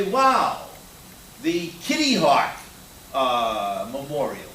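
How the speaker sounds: gawk at the sight out the window; delighted passenger spotting a landmark; mock surprise.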